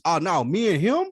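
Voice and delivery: hyped-up imitation of a rapper's boast; mock boastful rapper. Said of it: "You don't come out and say".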